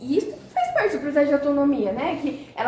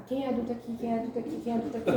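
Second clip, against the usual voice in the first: talking to herself; 2 semitones lower, 7 dB quieter, much faster than usual. Real, not acted. Mother calming herself down.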